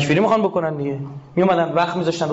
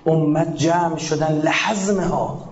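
slow recitation; much slower than usual. Shown as a demonstration. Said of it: "quotes then explains the phrase".

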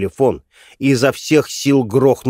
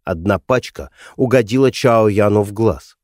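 normal talking voice

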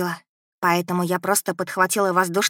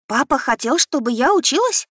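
изумлённо; 6 semitones higher than usual. Acted. Дочь потрясена новостью.

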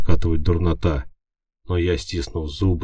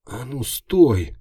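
slow wheezing call, pitched up; hoarse wheeze; 7 semitones higher, 3 dB louder, much slower than usual. A narrator's reading. Injured hero calling the fleeing imp, hoarse wheeze. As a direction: rasp it out, barely able to speak. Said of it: "просипел я".

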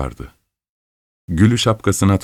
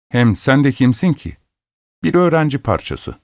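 put-on high, sneering girl's voice; haughty scorn; 6 semitones higher than usual. Girl sneering at the poor student, haughty and high. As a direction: look down your nose at him.

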